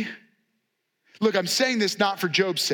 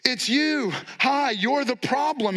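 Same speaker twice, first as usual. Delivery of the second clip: mock-sarcastic singsong, a little higher; sarcastic jab; 4 semitones higher, slower than usual. Friends blaming Job, sarcastic higher singsong. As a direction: toss the blame back with a smirk. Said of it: "said in a sarcastic way".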